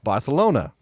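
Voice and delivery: "Barcelona" with a lisped th for the c, Barthelona; Spanish lisp. Shown as a demonstration. Host teasing co-host about Spanish, lisping "Barcelona" as Barthelona. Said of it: "Spanish has a lisp in it".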